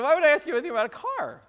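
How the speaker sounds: very high, loud and fast; husband repeating his wife's words in a high, loud mock voice; mock retort. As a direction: fire back indignantly.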